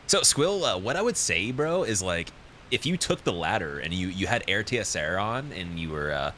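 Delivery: lightly voiced smug streamer; V-Sweat impression. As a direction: lecture a player on outdated strats. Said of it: "That's V-Sweat".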